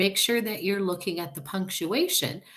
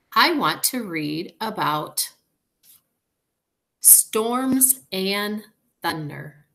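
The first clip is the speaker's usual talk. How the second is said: excited; 3 semitones higher, 6 dB louder, slower than usual. A narrator's reading. Character dialogue read expressively.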